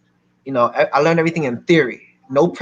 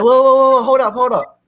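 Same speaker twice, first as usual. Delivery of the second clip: high, loud rush of whoas; imitated startled halt; 10 semitones higher, 6 dB louder than usual. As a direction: act out cutting off an angry caller. Seller halts the angry caller.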